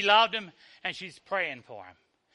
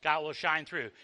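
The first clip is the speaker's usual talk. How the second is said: soft echo; 6 semitones lower, 7 dB quieter than usual. Shown as a demonstration. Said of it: "echo of the line before".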